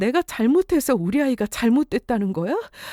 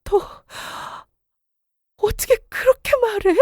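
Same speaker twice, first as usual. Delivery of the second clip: high, cracking outrage; wife outraged at her husband's cruel words; 9 semitones higher than usual. Acted. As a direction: fling it back at him, appalled. Furious at blaming husband.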